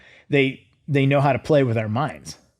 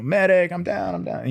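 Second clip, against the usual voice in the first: mock call for medic; 5 semitones higher than usual. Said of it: "the whole thing you see on movies".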